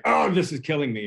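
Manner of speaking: lightly exasperated snarky aside; a touch of mock exasperation; snarky mock complaint. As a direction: toss it off as a sarcastic gripe. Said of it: "a snarky comment".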